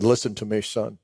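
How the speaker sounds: a faint last plea to his son; quiet dying father. Retold or imitated.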